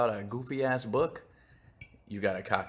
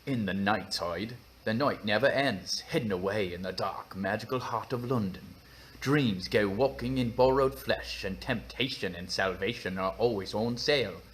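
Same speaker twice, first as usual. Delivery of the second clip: put-on tentative British accent reading; slightly put-on British storytelling voice. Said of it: "do it in a British accent".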